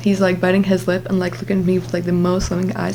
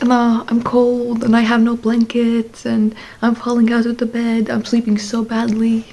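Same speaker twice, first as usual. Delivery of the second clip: mock whine; 3 semitones higher than usual. Retold complaint, cold without blankets.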